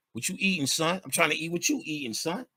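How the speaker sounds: hammed-up hood talk; street banter. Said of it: "when you go outside".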